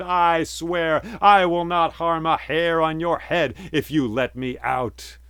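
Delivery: high, loud, solemn oath; genie swearing an oath. A narrator's reading.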